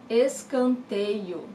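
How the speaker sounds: "Escanteio" drawn out slowly, syllable by syllable; slow teacher model; slow, careful pronunciation. Shown as a demonstration. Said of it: "the corner kick is escanteio".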